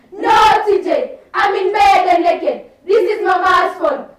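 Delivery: lightly voiced girl objecting; protesting girl. Plays girl refusing the request.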